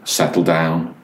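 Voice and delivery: understated calm, pitched a little down; low, calm voice. Retold or imitated. Dad keeping his cool while the boy screams, low and calm. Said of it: "In a very low voice".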